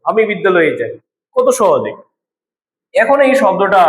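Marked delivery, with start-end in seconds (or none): 0.1-0.9 বিদ্যালয়ে said as one running word; quick joined phrase. Shown as a demonstration. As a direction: run the phrase together easily. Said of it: "দ্রুত উচ্চারণ করা যাচ্ছে". (দ্রুত, একটানা উচ্চারণ)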